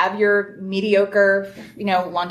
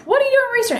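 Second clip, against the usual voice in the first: high-pitched, imitated student question; retold puzzled student; 4 dB louder, much faster than usual. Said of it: "They're like".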